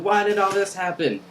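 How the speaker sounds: high, held-up pitch; mock plaintive question. Retelling you running outside after Rin, mock plaintive. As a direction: act out a pleading cry of confusion.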